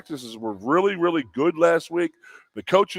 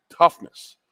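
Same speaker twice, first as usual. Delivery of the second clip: punchy, louder quoted word; a hammed-up coach's emphatic call; quoting the coach; 2 semitones higher, 6 dB louder than usual. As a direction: bark it out like the coach drilling his team. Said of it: "he kept on saying".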